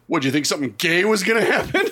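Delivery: fast, laughing through the buddy's deadpan question; mock serious buddy. Retelling the buddy's serious question to friends, laughing. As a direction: quote him straight-faced but cracking up. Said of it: "looks me dead in the eye, super serious".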